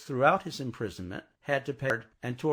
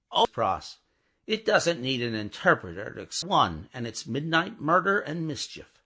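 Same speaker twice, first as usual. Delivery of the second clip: crying out; 3 semitones higher, 4 dB louder than usual. Acted. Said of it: "cried Lucy".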